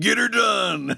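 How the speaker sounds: high, loud laughing redneck shout; Southern redneck. Retold or imitated. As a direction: bark it like a good ol' boy. Joining the trucker bit.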